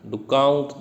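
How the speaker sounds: "do count" as one pair, stress on count; light "do", strong "count"; iambic foot. Shown as a demonstration. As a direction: set "do count" apart as a da-DUM beat. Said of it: "दूसरा".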